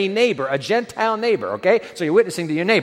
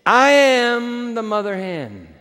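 slow solemn declaration; 4 semitones higher, slower than usual. Retold or imitated. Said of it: "God ... he says".

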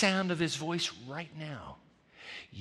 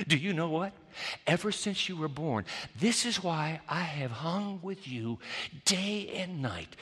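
softer, slow, tender smiling voice; 6 dB quieter, slower than usual. Retold or imitated. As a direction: welcome him home with a smile in the voice. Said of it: "and the voice is smiling".

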